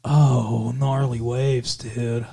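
low, drawn-out Californian surfer dude; surfer dude accent. Acted. Host demonstrating the accent to girlfriend, surfer dude accent. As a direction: stretch it like a laid-back surfer dude. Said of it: "Surfer dude accent".

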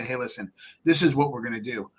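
calm plain-spoken offer to a nervous seller; crayon-simple reassurance. Shown as a demonstration. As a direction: keep it simple and gentle, like talking in crayon. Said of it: "you've gotta talk in crayon language".

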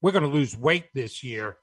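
stern inner voice. Acted. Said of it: "is telling another part of you".

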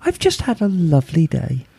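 femme fatale. Acted. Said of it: "she had an American accent".

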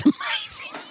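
very high, delighted squeal; gushing delight. Real, not acted. Fan raving about an old reality show, gushing squeal. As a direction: gush in a tiny high squeak.

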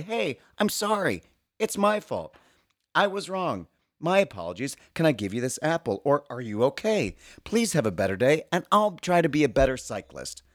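high, meek cyclist voice; mock apology. Imagined cyclist apologising to the pedestrian, high and meek. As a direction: play the sorry cyclist, sweetly. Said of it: "and say".

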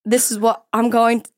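hesitant, amateur Australian accent. Shown as a demonstration. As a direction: try out a mock Australian accent, pausing between phrases. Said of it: "here's my Australian accent".

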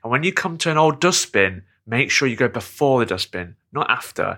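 lightly voiced helpful local giving directions. Local explaining the way to the dog park, lightly imitated. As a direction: lightly imitate someone reeling off a route. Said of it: "she did that thing that people do who forget that Google Maps exists".

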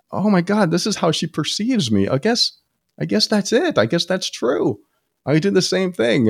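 the penny drops, voice lifted high; dawning realization. Retold or imitated. Husband realizes his wife is right, high stunned realization.

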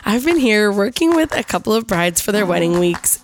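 hoarse from being sick; a bit run down and hoarse; raspy voice. Real, not acted. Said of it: "excuse my raspy voice".

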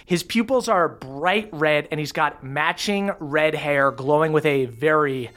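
slow, emphatic monster description; game master narration. Acted. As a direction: dwell on each feature, slowly.

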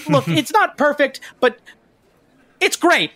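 hedge, then hastily reassure and move on; guide backpedalling. Acted. Guide makes a save after implying bad things happen, in a lifted character voice. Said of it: "he kinda made a little bit of a save".

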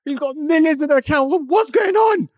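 very high, loud comic panic; freaking out. Retold or imitated. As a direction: re-enact spiralling panic, shouting in a high voice. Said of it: "And I'm freaking out".

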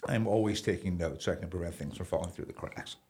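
slight choke in the throat; choking. Real, not acted. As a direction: talk through a tickle in the throat. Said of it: "I'm also choking on nothing".

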